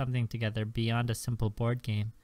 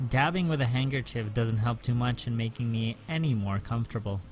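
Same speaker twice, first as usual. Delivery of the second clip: calm first-person narration; story narration. A narrator's reading. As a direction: read it like a novel. Reads the visual novel narration.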